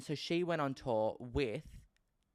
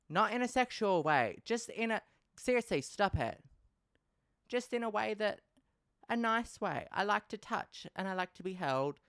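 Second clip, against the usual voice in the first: much higher, flustered denial; flustered high protest; 9 semitones higher than usual. Real, not acted. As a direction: squeak out the protest, embarrassed. Defensive, embarrassed to viewers.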